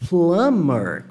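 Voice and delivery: 'plumber' said with no B sound; silent B. Shown as a demonstration. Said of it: "como se não existisse esse B".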